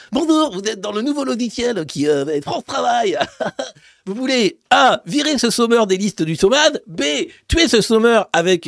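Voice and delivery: chômeur said sommeur, ch turned to s; lisping software voice, sommeur for chômeur. Acted. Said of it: "Elle parlera avec un zozotement".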